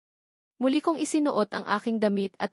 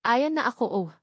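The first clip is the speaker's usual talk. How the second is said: a higher, pushed-out cry; loud exclamation; 4 semitones higher than usual. Acted. Lover at his climax, crying out higher. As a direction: let it out, higher. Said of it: "Malakas niyang sambit".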